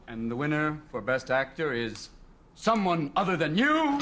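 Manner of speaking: mock awards-show announcer reading the winner, slow. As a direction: announce it slowly, a touch low. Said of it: "they read the name and they go".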